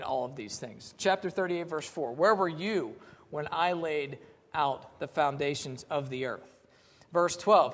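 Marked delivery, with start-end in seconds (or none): 2.1-6.6 slow, lightly stern challenge; a hint of God questioning Job; voice of the Lord. God challenging Job, lightly stern and slow. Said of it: "The Lord talking to Job".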